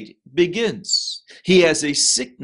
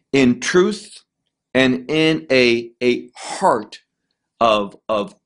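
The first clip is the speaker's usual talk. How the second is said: whispered; 3 semitones lower, slower than usual. Acted. Mid-prayer quote, unvoiced.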